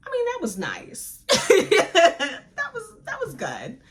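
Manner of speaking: laughing through the words, real; giggling over the love scene, real laughter. Real, not acted. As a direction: giggle while admitting it.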